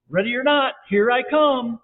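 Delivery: high, loud seeker's call. A narrator's reading. Seeker to hidden friends, calling out. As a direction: sing it out across the yard. Seeker calls out in hide-and-seek.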